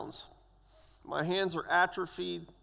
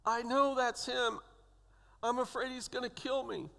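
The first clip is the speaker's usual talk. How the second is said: high, hushed, mildly fearful; retold terror; 5 semitones higher, 3 dB quieter than usual. Patient tells nurse of his attacker nearby, quietly afraid. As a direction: confide the fear softly in a raised voice. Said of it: "I'm terrified".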